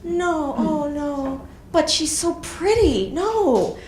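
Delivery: dismayed stranger. Retold or imitated. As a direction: imitate a stranger's shocked sympathy. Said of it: "They look at me and they go".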